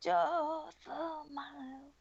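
slow, stretched rock-singer take on Joyful Miles; raspy rock-singer impression. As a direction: croon it slowly like a raspy rock ballad. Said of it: "Or a singer".

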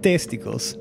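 "Testicles" drawn out with a peculiar stress; odd pronunciation. Shown as a demonstration. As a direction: say "Testicles" slowly, like a grandiose name. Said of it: "keep saying it like that".

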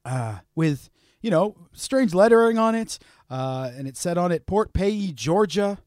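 soft narration with deliberate pauses; storyteller recap. Acted. Host recounting strange mail, soft storyteller narration. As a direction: tell the odd tale softly, piece by piece.

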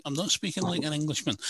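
retold denial. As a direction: replay your own protest to a cousin. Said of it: "And I'm like".

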